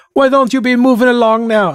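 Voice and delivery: attempted Irish accent. Designing a minotaur character, the speaker voices him in an attempted Irish accent. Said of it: "totally has an Irish accent".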